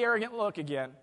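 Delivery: ordinary talk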